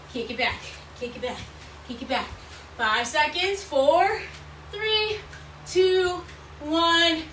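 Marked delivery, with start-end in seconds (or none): 2.8-7.2 rising hyped countdown. Real, not acted. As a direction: pump them up to the finish. Counting down end of set.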